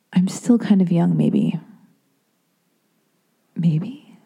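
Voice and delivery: a whispered reassurance to herself; whispered aside. Real, not acted. Talking herself out of a hearing test in a whisper. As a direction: hush it like a private excuse.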